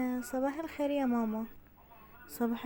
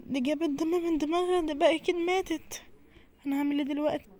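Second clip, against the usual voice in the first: panicked; 4 semitones higher than usual. Acted. Panics after mother falls.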